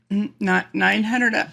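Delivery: real laughter breaking up the words; laughing attempt. Real, not acted. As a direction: try to say the fee but keep cracking up. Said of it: "I tried to say it".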